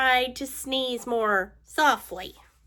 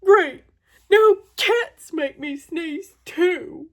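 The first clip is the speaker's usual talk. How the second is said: sarcastic complaint; 2 semitones higher, 4 dB louder than usual. Acted.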